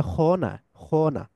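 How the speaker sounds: খ wrongly said with a rounded "o" vowel; wrong rounded sound. Shown as a demonstration. Teacher warning learners off the o sound, খ mispronounced with round "o". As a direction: say খ as "kho", the mistake to avoid. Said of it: "খ মানে অ sound, অ sound হবে না".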